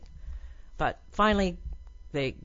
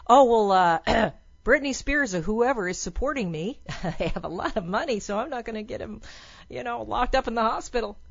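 higher mock family member voice; hammed-up higher, hedging tone; excuse-making relative; 5 semitones higher than usual. Voicing self-interested family members.

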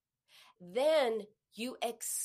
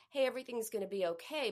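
quick reassurance; faster than usual. Shown as a demonstration. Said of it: "it might be".

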